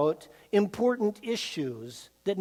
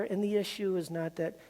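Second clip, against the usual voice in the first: teddy bear voice; 3 semitones lower, 11 dB quieter than usual. Retold or imitated. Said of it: "says the teddy bear".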